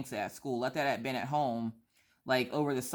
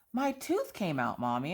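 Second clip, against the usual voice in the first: put-on child voice; 3 semitones higher than usual. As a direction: mimic a small girl showing off. Child quoted telling mom tooth.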